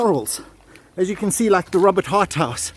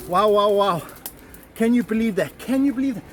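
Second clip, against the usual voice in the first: excited. Real, not acted. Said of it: "I'm just so excited".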